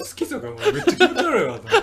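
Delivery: high, loud laughing complaint. Real, not acted. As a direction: laugh it out in disgust. Laughing at own dislike.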